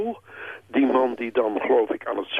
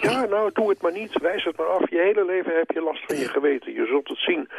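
lightly voiced colleague, pitched higher; imitated urging colleague; 6 semitones higher than usual. A colleague advising the man to refuse, mildly imitated urging. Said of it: "een collega naar hem toegekomen. Die heeft gezegd".

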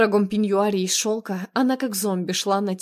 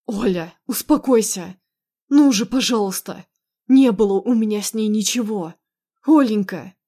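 louder, insistent appeal; raised, emphatic begging; urgent pleading; 5 dB louder than usual. Acted. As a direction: plead with her to calm down and believe. Husband urgently pleads with crying wife.

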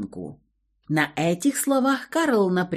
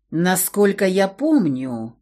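cold, slow and commanding; icy bossy tone; slower than usual. Acted. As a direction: speak like a chilly boss. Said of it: "ледяным начальственным тоном".

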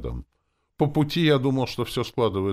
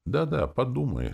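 higher, eager and bright-voiced; enthusiastic exclaim; 8 semitones higher than usual. A narrator's reading. Teacher eagerly urging the hero to think it over, higher and keen. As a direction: cheer him on with keen enthusiasm. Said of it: "с воодушевлением воскликнула Ольга Петровна".

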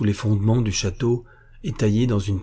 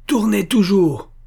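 drawn-out, high, loud yell; hurlement; 11 semitones higher, 6 dB louder, slower than usual. A narrator's reading. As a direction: howl the order, slow and furious. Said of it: "hurla Mathéus". (ordre hurlé, aigu et traînant)

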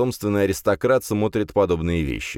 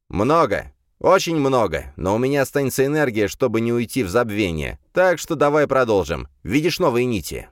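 eager demon voice; 5 semitones higher than usual. Acted. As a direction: stress how much power it takes.

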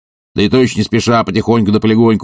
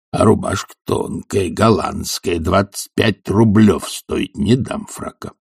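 Zakhar's sullen slow muttered tally; grumbling old servant; 2 semitones lower, slower than usual. Acted. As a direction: drag out the complaint.

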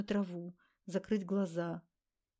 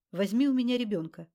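a clipped, much louder command, punching "у"; curt order; 3 semitones higher, 7 dB louder than usual. A narrator's reading. Tamara orders Wanda to take the baby, curtly. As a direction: bark out the order. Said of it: "отрывисто приказала Тамара".

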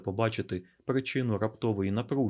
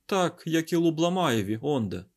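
raised, higher-pitched retort; shouting; 6 semitones higher, 4 dB louder than usual. Acted. Scientist answering the garuda's plea, shouted retort. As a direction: call it out impatiently. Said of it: "крикнув Айзек".

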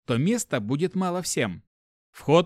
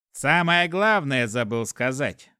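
grumbling; slower than usual. Acted. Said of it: "пробухтел Купорос".

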